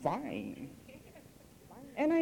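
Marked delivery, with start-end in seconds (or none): 0.0-0.7 FINE with a long F through bared teeth; soft, lower FINE, teeth dug into the F; fangs-out F. Shown as a demonstration. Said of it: "Exposes the fangs when you say".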